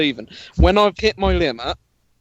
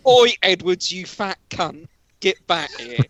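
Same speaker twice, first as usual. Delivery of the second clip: half-hearted re-enacted street shout; retold shout; 4 semitones higher than usual. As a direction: imitate calling someone back, easing off after the first words. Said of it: "shout down".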